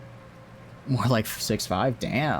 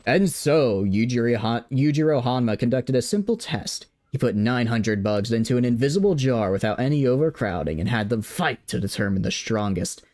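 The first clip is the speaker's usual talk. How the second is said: lightly voiced dramatic anime narrator; Baki narrator voice. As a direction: read it like an epic fight narrator. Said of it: "I've gotta try reading it in the narrator's voice".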